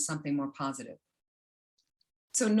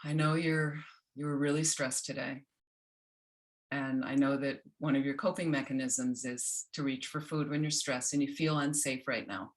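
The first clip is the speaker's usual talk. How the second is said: gentle, a little lower, kind; softer compassionate voice; 3 semitones lower than usual. Shown as a demonstration. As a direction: speak to yourself like a caring friend. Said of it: "Now here's something softer".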